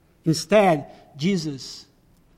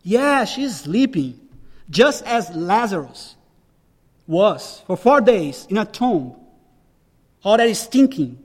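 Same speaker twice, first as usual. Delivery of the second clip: voicing Jesus calmly; 2 semitones higher than usual. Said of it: "speaking with the divine language".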